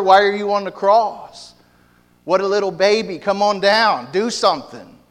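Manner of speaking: sneering mock crying, then jeering; mocking taunt. Preacher voicing the crowd mocking Jesus, jeering. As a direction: taunt him like a scoffer at the cross.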